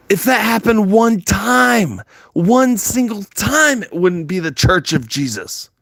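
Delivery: high, slow, drawn-out outrage; heated slow rant. Real, not acted. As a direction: spell it out slowly, seething. Angry preaching rant, slow and high.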